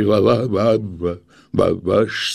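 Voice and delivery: trembling stammer. Acted. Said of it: "трясясь всем телом, силится выговорить".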